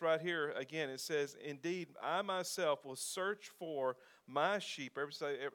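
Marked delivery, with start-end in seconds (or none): 1.4-5.0 slow, weighty reading, each word set apart; slow emphasis. Shown as a demonstration. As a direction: let the verse land slowly. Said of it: "notice that phrase".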